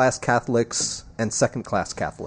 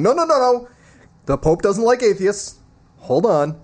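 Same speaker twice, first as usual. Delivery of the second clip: mock objection; 8 semitones higher than usual. Host quotes follow-ups from other people, high mock objection. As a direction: imitate people protesting, pitched well up.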